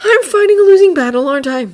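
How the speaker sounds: high, resigned sighing voice; despairing sigh. Acted. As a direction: give up with a sigh. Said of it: "Draco sighed".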